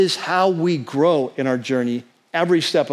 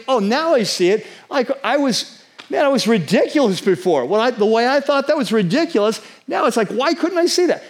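higher-pitched imagined dawning realization; voicing astonished hindsight, pitched up; sudden realization; 5 semitones higher than usual. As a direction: play the amazed moment it finally clicks.

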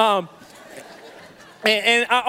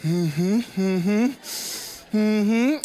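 tight-lipped hums while acting winded; mock attempt to hide being out of breath; hiding breathlessness; much slower than usual. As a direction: hum agreement as if holding in heavy breathing. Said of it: "act like I'm not out of breath".

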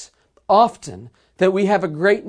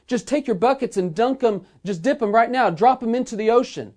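retold yell; 5 semitones higher than usual. Peruvian captain answering thirsty sailors, mildly acted yell. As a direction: call it back as if across the water, lightly acted. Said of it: "he yelled back".

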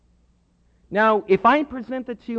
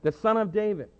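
crowd crying out; 5 dB louder than usual. Retold or imitated. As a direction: call it across the crowd. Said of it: "What are they crying out?".

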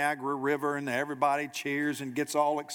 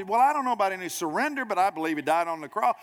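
fast, higher-pitched mock protest; defensive hedging; 5 semitones higher, faster than usual. Believer balks when asked about surrender, defensively. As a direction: play someone backing away from the question.

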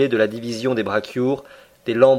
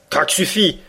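ironic; 5 semitones higher than usual. A narrator's reading. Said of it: "répondit ironiquement le Canadien".

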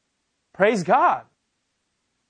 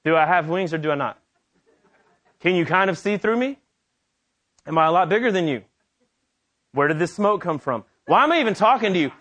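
incredulous angel. Retold or imitated. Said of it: "Gabriel's probably like".

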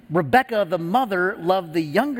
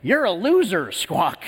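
heckling parrot; 3 semitones higher than usual. Acted. Parrot insults a man in a pet store, mock squawky jeer. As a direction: taunt a passerby like a parrot. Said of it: "the parrot says to him".

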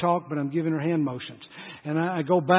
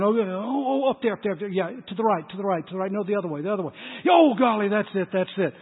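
mock moaning; 3 semitones higher, faster than usual. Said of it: "I'm moaning, I'm groaning".

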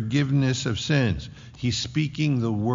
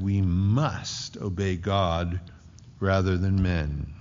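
lower, slow restatement leaning on "must"; emphasis on MUST; 3 semitones lower than usual. Shown as a demonstration. Preacher repeats Peter's answer to the congregation, low emphatic "must". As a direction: bring it down low, holding "must". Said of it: "There's an emphasis on the word".

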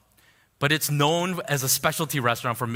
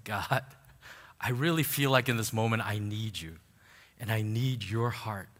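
softer, lower, humble plea to God; retold prayer; 4 semitones lower, 5 dB quieter than usual. Driver praying to God on the way home, hushed retold prayer. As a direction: quote a private prayer quietly, slightly lowered. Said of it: "I just pray to God".

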